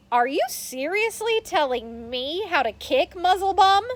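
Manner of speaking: put-on boy yelling angrily at a classmate; angry yell. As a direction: snap at the know-it-all kid. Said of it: "Ricky yells".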